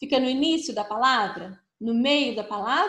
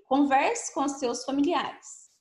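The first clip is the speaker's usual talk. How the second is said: slow reading; 2 semitones higher, slower than usual. Shown as a demonstration. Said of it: "Letra E".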